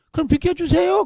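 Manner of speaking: acted polite tone, high-pitched, sounding far off.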